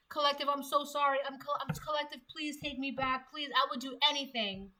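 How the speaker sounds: hammed-up weepy pleading, dragging the words; tearful begging. They beg the collective to take them back, mock crying. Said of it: "begging, crying, ugly crying at that".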